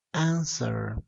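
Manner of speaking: "answer" stressed on its opening syllable; stress on first syllable. Shown as a demonstration. Teacher demonstrating voice stress, "answer" with first syllable stressed. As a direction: put the force on AN- in "answer". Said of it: "La mayor fuerza de voz recae en la primera sílaba".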